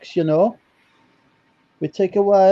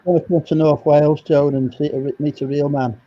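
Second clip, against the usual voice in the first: put-on Welsh accent; 4 semitones lower than usual. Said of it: "Can you do a Welsh accent".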